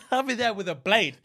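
laughing through a mock threat. Real, not acted. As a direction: threaten while cracking up.

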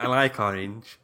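mock toddler. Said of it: "he's a proper toddler".

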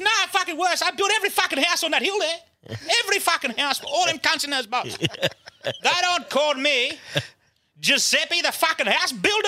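high-pitched hammed-up wail; mock-sob the complaint in a very high voice; comically wailing, aggrieved; crying. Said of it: "He starts crying".

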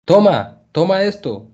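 high, loud call; man on the bank shouting to Frank. A narrator's reading. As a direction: urge him to grab it. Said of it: "gritó el hombre".

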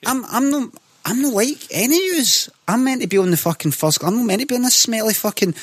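high-pitched, hammed-up indignation; mock snobbish outrage. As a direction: protest like an offended first-class passenger. Mock snobbish rant about standard class.

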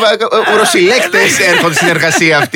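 slow, halting joke through laughter; laughing. Real, not acted. Host riffing on singer wetting herself over idol, laughing. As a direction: stumble over the words, laughing.

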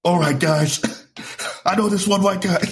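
high-pitched put-on white-guy voice. Comedian trying the voice on an imagined crowd, white guy voice. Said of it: "This is a white guy".

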